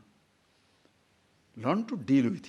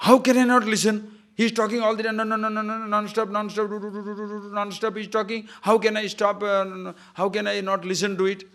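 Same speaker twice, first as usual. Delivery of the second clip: exasperated complaint; 6 semitones higher, 4 dB louder than usual. Acted.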